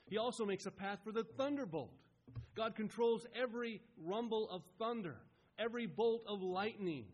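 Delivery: predicación enfática. Real, not acted. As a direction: preach each phrase with rising force. Preacher builds on God's power.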